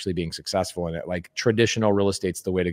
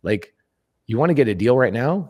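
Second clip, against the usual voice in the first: incredulous; 3 semitones higher, 3 dB louder than usual. Retold or imitated. Host reacting to people getting licenses, high incredulous. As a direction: pitch jumps high in mock disbelief. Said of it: "And I'm like".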